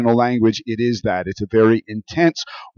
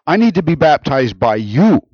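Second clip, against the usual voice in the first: louder, higher, insistent objection; emphatic protest; 4 semitones higher, 5 dB louder than usual. Acted. John objecting to baptizing Jesus, emphatic protest. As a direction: protest it with force, stressing the need.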